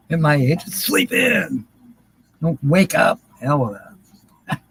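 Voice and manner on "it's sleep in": singsong high. Pretend. Repeats singsong joke.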